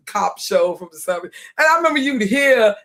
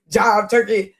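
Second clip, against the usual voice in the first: laughing, hammed-up jive turkey with both words punched; mock seventies TV jive; slower than usual. Streamer mocking how TV had black characters talk, laughing mock jive. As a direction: toss it off like a cheesy cop-show line while laughing. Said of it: "but not like that. It's".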